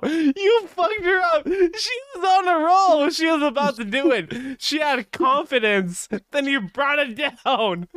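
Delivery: laughing scold. Real, not acted.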